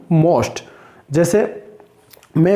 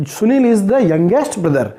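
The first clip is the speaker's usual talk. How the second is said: slow example; slower than usual. Shown as a demonstration. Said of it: "इसका अर्थ क्या हुआ".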